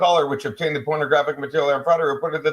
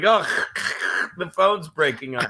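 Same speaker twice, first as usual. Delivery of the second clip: mock phone breakup. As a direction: imitate a crackling, breaking-up phone. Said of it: "That's what your phone sounds like".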